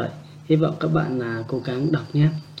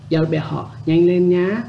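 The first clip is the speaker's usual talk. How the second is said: raised, louder hurry-up call; urging someone on; 4 semitones higher, 5 dB louder than usual. Acted. Teacher plays someone rushing a friend, urging. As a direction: hurry them along, voice climbing at the end. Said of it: "khi mà mình thôi thúc ai đó".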